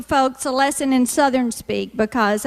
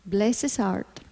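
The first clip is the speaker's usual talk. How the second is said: softer, pitying "Bless his heart"; sympathetic; 5 semitones lower, 6 dB quieter than usual. Shown as a demonstration. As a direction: coo it with mock sympathy. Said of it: "we offer a very sympathetic".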